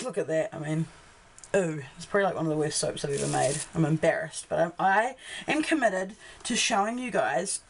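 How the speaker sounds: hoarse, croaky throat; talking through a croaky voice. Real, not acted. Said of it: "excuse my croaky voice".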